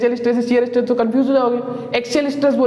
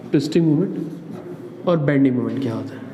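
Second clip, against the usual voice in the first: slow and softer, each word spaced for writing; slow dictation; 7 semitones lower, 3 dB quieter than usual. Shown as a demonstration. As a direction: dictate "twisting moment और bending moment" slowly for students to copy. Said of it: "heading में लिख लेना".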